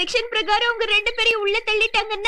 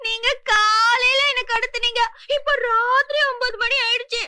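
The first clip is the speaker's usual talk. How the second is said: fake crying; 4 semitones higher than usual. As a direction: overact the weeping to guilt them. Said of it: "அழுதுகிட்டு இருக்காப்பா".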